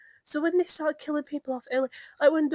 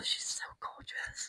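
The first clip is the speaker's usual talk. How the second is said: softer laughing whisper; giggly whisper; 12 dB quieter, slower than usual. Real, not acted. Admiring a favourite villain to a friend, giggly whisper. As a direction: breathe it out through a giggle. Gushing over Bellatrix.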